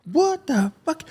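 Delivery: a high startled what; mock shock. Left behind by the convoy, a high startled what. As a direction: react as if you just saw the convoy leave. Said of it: "And I'm".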